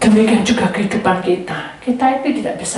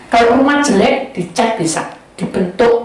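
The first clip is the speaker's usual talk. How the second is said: ordinary talk, nothing marked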